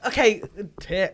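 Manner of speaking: lightly Texan, podcast-narrator calm; Texan accent. Acted. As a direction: read names like a true-crime host. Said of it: "narration for an American murder mystery podcast".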